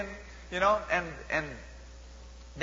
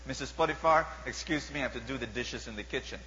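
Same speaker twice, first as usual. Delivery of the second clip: soft, lower, politely declining servant; polite Joseph; 5 semitones lower, 4 dB quieter than usual. Acted. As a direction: Joseph excusing himself to Potiphar's wife, softly polite. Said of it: "He says".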